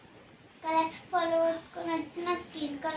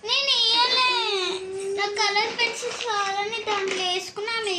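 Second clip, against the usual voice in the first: sobbing protest, louder and higher; real crying; 3 semitones higher, 3 dB louder than usual. Real, not acted. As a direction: cry out the words through real tears. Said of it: "సరే, ఏడవకు". (నిజంగా ఏడుస్తూ చెప్పడం)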